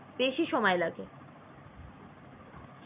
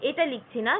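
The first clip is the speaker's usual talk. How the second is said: ordinary talk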